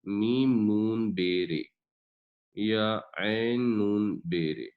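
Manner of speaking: slow, deliberate letter-by-letter spelling; name each letter of میم نون بے رے slowly and separately. Shown as a demonstration. Teacher spelling a word out for students, slow and deliberate. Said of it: "دوسرا لفظ ہے".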